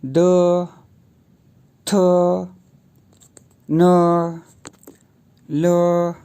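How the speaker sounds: द थ न ल read as a slow row; each of द थ न ल short and distinct; pinyin column. Shown as a demonstration. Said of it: "मैं फिर से पढ़ रहा हूँ".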